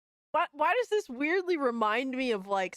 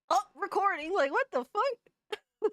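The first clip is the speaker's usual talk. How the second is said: mock quote; 9 semitones higher than usual. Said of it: "she was like".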